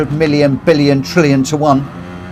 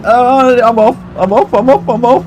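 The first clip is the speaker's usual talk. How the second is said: excited; 7 semitones higher than usual. Real, not acted. Excited as car moves.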